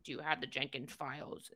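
serious office voice. Retold or imitated. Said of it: "just be all serious".

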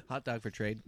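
soft, hushed whisper. Real, not acted. Whispered joke follow-up.

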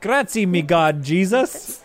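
put-on a light Italian chef accent. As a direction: kiss the fingers, Italian chef. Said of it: "both boys speak in thick Italian accents".

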